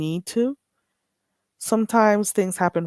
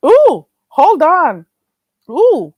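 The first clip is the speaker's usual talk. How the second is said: laughing; 8 semitones higher, 11 dB louder, slower than usual. Real, not acted. Still laughing.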